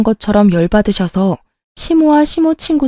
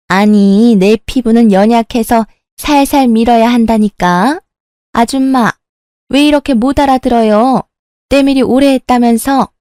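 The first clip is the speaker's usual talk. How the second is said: haughty scolding; 2 semitones higher than usual. Acted. Mother-in-law scolds bathhouse mother.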